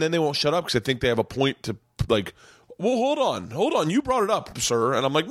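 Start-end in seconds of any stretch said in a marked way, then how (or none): 2.8-4.9 mock drunk heckler.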